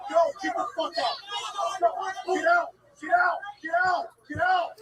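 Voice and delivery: real yelled commands to leave; shouting get out. Real, not acted. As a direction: bark them out of here, fast and hard. Fight, ordering someone away.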